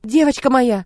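high, loud clucking fuss. Acted. Maid fusses loudly over the crying girl, clucking. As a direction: cluck over the child like a hen. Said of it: "закудахтала служанка".

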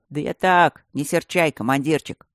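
old geezer mumbling a hammed-up apology; mock repentant mumble. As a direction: overdo the sorry old man. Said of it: "утрированно с покаянием прошамкал старикашка".

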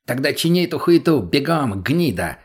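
angry snarl at the professor; barked order. Acted. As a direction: bark the order with contempt. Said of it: "рявкнул наркоман".

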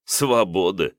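scoffing, incredulous question; amused disbelief. Acted. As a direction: echo her word with a laugh. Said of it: "Князь неожиданно расхохотался".

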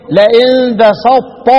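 لئن بسطت drawn out with the ت swallowed into ط; slow reversed-merge demo. Shown as a demonstration. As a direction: recite لئن بسطت slowly, ending on a heavy ط. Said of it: "وأقرأ إيه".

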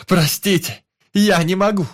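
high, loud, desperate shout; screaming at full voice. Acted. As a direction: keep screaming the apology. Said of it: "закричал я во всё горло".

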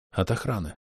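softly, barely above a breath; quiet explanation. Acted. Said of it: "— тихо пояснил я".

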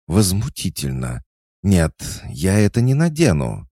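high, loud indignant refusal. A narrator's reading. Cat goddess refuses to wear the harness, outraged. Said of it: "Кошка с возмущением".

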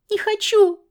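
put-on high, loud cry of a girl; child's refusal. Girl refusing her cap being taken, high and loud.

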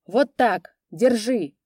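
triumphant shout. A narrator's reading. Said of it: "крикнул Касьян Рыжий".

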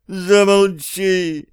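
high, long-drawn desperate cry; pleading. A narrator's reading. Steve begs the singing cat to stop, pleading. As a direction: beg for silence, stretching it out. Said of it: "взмолился Стив".

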